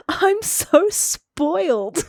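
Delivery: laughing to herself, high and slow; giggle, then stretch out the confession; high, drawn-out words through mock laughter. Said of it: "just starts laughing to herself".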